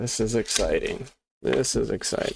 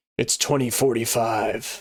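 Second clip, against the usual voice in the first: cool, moody cyberpunk movie trailer narrator voice. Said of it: "was that not a cool, like, cyberpunk, uh, voice?".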